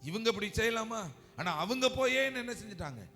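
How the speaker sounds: high-pitched aggrieved disbelief; Joseph. Acted. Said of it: "அப்படின்னு யோசேப்பு நினைச்சிருப்பார்ல". (உயர்ந்த குரலில் ஆதங்கம்)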